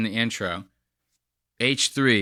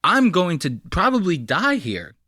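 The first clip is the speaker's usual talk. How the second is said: higher, mildly panicked rambling; mock panic; 4 semitones higher than usual. Host imagining the scared masseuse at work. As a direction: lightly act out a frightened worker. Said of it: "She was probably like".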